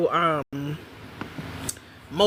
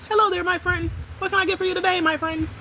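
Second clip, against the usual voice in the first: much higher, sing-song friendly greeting; TikTok coffee girl; 9 semitones higher, faster than usual. Retold or imitated. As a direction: chirp it like a bubbly barista. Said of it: "That's how she talks".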